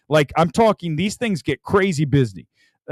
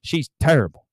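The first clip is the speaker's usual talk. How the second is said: Dusty Rhodes; 3 semitones lower than usual. Pretend. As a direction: cut a mild Dusty Rhodes promo. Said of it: "now I sound like Dusty Rhodes".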